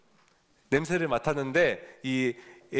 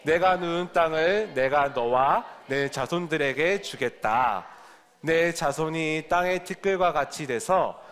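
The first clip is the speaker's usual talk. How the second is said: scripture reading; slower than usual. Acted. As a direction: read it out slowly for the class to follow. Reads scripture aloud with the children.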